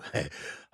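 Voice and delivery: very soft, nervous laugh; flustered chuckle. Acted. Working up to a love confession, flustered soft chuckle. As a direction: laugh softly to steady yourself.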